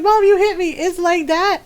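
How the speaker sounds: hammed-up complaint to mom; protesting brother. Brother protests to mom after hit.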